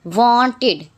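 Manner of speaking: wanted in two clear beats, "won-tid". Shown as a demonstration. Teacher showing past-tense ED sounds, wanted said "won-tid". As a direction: end wanted on a full "id". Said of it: "Examples of I D".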